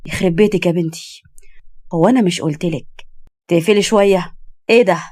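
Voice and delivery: mildly shocked scolding man; a touch of appalled reproach. A narrator's reading. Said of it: "وبص لها بصدمه وقال".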